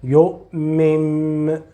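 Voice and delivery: يؤمن ending in a meem sound; noon turned to meem. Shown as a demonstration. Teacher shows student the right sound, final meem. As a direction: close يؤمن on m, lips shut. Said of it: "say the meme".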